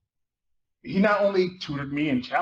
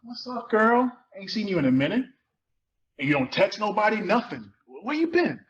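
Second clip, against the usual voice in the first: Khalil's voice; 4 semitones higher than usual. Acted.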